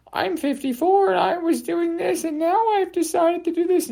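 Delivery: very high, nasal-free mock sing-song of Godard; shrill mocking Godard impression. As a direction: squeak out a parody of him. Mocking Godard's pompous talk.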